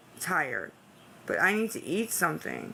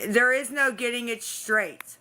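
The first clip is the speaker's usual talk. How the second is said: emphatic insistence; 4 semitones higher than usual. Real, not acted. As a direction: insist hard, pushing back. Arguing with chat, exasperated.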